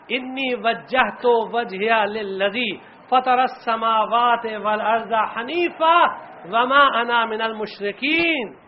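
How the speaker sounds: slow, measured Quranic chant; Quran recitation. Acted. Preacher reciting the martyr's verse, slow and measured. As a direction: recite the verse slowly and reverently.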